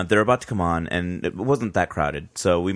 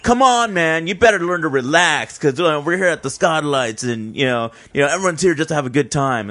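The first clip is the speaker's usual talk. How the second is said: mock calm taunt; 6 semitones higher, 3 dB louder than usual. Friend egging on the skinhead.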